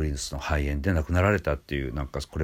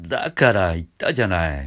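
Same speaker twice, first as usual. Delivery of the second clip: scooping up from below in vocal fry; creaky squeezed-throat start; edge voice; 5 dB louder than usual. Shown as a demonstration. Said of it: "下からしゃくる感じで".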